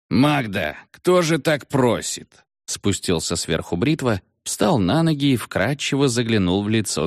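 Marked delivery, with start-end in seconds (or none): 0.1-2.4 mocking. Britva mocking Magda.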